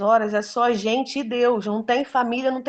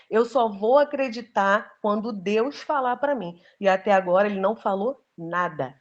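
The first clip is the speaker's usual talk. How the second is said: firm, cold resolve. Retold or imitated. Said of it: "nessa hora eu fui fria".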